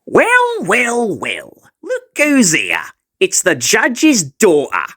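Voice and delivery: gloating. Acted. Bully gloats at Terani.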